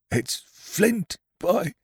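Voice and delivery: high, startled cry of recognition; pirate crying out in fright at a ghostly song; frightened cry. Acted. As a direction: gasp it out in terror. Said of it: "cried Merry".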